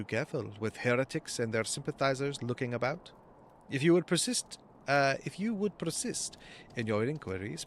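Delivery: badly faked French accent, reading a game character; shitty French accent. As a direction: put on a rough, formal French accent. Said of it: "I've been giving everyone a French accent".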